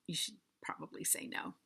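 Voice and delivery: whispered aside. Real, not acted. Secret advice aside.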